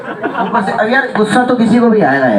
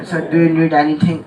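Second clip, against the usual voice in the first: posh English flight attendant; much slower than usual. Retold or imitated. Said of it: "वो पूरा English में".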